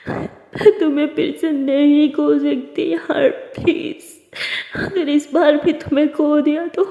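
tearful pleading, slow and breaking; crying voice. Acted. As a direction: beg her to open the door through tears. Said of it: "तारा रोते हुए आवाज़ में". (रोते हुए आवाज़ में विनती)

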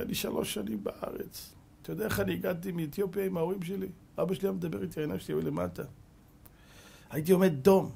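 tearful confession. Retold or imitated. Student recalls his father, weeping.

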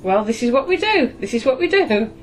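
voice of the unconscious. Acted. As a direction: lightly voice a stubborn unconscious, pitch climbing with each repeat. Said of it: "and the unconscious goes".

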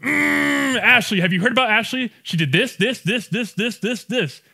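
high, loud, laughing gossip voice; mock gossip spilling everything to a friend; hammed-up gossiping with giggles; gossipy rant. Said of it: "and I'm like".

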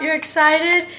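normal talking voice

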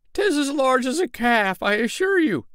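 high, dramatic cutting in; eager interruption. Acted. Tinker cuts in on the tailor before the crowd, dramatic. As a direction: grab the story back. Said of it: "interrupted the tinker".

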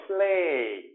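슬레이 with 이 drawn out long; long vowel. Shown as a demonstration. Teacher models for students, 슬레이 with a lengthened ending. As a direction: stretch the end of 슬레이. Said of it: "이를 되게 길게 발음해요".

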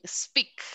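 "Speak" with only an ee vowel; pronunciation model. Shown as a demonstration. Teacher explaining the vowel column, "Speak" modelled with ee only. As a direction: model "Speak" with one pure ee sound. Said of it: "solo suena I".

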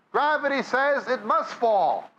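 ordinary delivery

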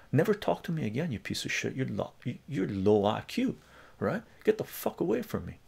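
retold angry dismissal. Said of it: "I go".

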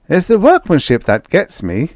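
a touch of wonder in a businessman's voice; man marvelling at the craftsmanship; admiring industrialist. A narrator's reading.

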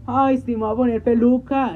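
playful fake wickedness; mock evil. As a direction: scheme it out like a cartoon villain. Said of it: "de que muy malvada".

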